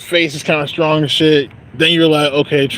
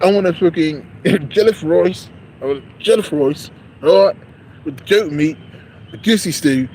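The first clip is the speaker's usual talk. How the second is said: playful mock British-Nigerian accent; 3 semitones higher than usual. Customer ordering jollof rice, mock British-Nigerian accent. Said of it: "I'm doing a British accent".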